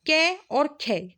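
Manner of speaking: कै and खे drawn out slowly, each sound clear; slow, spelled-out letters. Shown as a demonstration. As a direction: say कै और खे slowly for students to copy. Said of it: "देखो, इस तरह से इनकी पहचान". (धीरे-धीरे, साफ़ उच्चारण)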